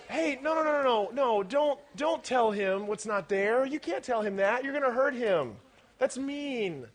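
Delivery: mock hushed-up protest; imitated objection. Speaker imitating kids who would spare the man, mild protest. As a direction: lightly imitate someone shielding another's feelings. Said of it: "You're going".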